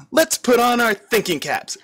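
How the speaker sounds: high, playful giggly voice; giggling with delight. A narrator's reading. Lulu cheerfully offers help, high and giggly. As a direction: chirp it out with a giggle. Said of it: "she giggled with delight".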